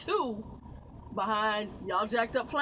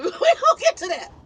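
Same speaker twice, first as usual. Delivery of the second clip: higher, louder, laughing stammer; 10 semitones higher, 10 dB louder than usual. Real, not acted. Trucker teasing the rest of her story, laughing. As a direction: laugh your way through the promise.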